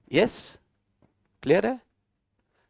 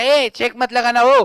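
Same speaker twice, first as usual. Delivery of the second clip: drawn-out mock warning, a bit louder; mock written warning; 4 dB louder than usual. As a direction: mimic the warning with stretched words. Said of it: "अभी आपने लिख के दिया". (लिखी चेतावनी की नकल, खींचकर)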